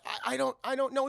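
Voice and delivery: high, stammering excuse; flustered. Retold or imitated. Yelled-at worker answers the angry boss, flustered.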